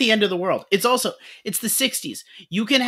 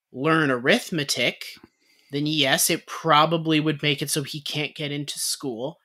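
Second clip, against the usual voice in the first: cautious answer; 4 semitones lower than usual. Retold or imitated. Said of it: "a very conservative answer of".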